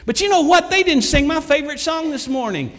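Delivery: high-pitched, indignant mock griping; complaining churchgoer. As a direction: whine in outrage as a petty churchgoer.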